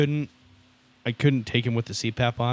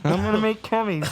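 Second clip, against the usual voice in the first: high falsetto; 10 semitones higher than usual. Acted. Mock sex voice.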